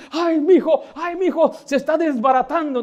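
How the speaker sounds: high, loud, hammed-up panicked father; mock fussing parent. Panicky father over his fallen son, mocking high fuss. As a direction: overdo the worried dad's wail. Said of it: "y el papá".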